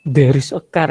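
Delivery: "There is a car" with a medok Javanese lilt; Javanese accent English. Shown as a demonstration. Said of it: "itu orang Jawa itu". ("There is a car" dengan logat Jawa medok)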